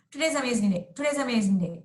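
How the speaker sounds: "Today's amazing day" run together, words swallowed; teacher showing the class the overly slurred way. Shown as a demonstration. Words run together. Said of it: "it's not as though I'm saying".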